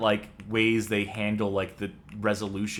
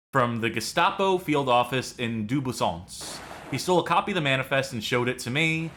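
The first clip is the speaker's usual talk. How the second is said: put-on French accent; 2 semitones higher than usual. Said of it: "This is my French accent".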